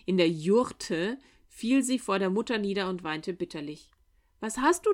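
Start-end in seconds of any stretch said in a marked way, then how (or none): 4.4-4.9 worried mother. A narrator's reading. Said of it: "fragte die Witwe besorgt".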